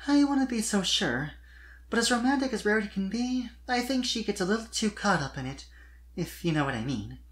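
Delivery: high filly voice, lightly teasing; Sweetie Belle voiced, teasing. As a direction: tease gently about her sister. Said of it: "with a small giggle".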